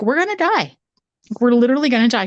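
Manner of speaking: mock terror. Girls terrified by footsteps.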